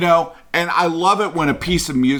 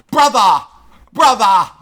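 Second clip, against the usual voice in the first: loud, high mocking imitation of a bad accent; overdone fake accent on brother, brother; mock Christian Slater accent; 7 semitones higher, 7 dB louder than usual. Mocking a film star's bad accent to a friend. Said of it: "He's trying to do this accent".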